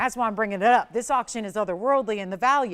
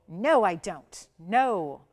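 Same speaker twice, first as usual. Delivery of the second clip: firm, emphatic NO; 3 semitones lower, 3 dB louder, much slower than usual. Retold or imitated. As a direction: land each NO as a final refusal. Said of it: "A very emphatic no".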